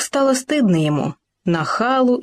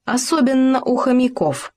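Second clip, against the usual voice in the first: «Особенно у хомяков» pitched higher for emphasis; pointed emphasis; 7 semitones higher than usual. A narrator's reading. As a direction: underline «Особенно» with raised pitch. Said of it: "подчеркнул дятел".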